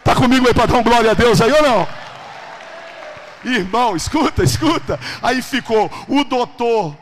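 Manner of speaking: impassioned, shouted preaching; full-force preaching. Real, not acted. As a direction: rouse the congregation with building fervour.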